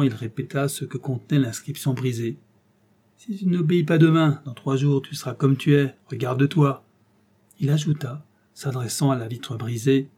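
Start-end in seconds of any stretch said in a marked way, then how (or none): 3.2-6.8 mocking. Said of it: "en goguenardant".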